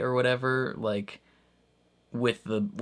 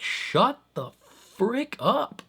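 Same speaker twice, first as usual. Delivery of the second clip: mock snap; 13 semitones higher, much slower than usual. What you want to snap back.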